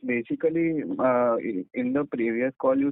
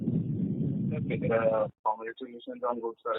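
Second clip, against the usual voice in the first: very faint and far from the mic; words fading out, hard to catch; barely audible; 2 semitones lower, 6 dB quieter, slower than usual. Real, not acted. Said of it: "your voice is very low".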